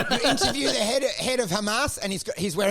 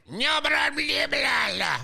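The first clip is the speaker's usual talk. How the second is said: higher mock gibberish; 6 semitones higher, slower than usual. Shown as a demonstration. Mocking a foreign speech as gobbledygook. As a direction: babble like a foreign tongue. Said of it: "It's gobbledygook".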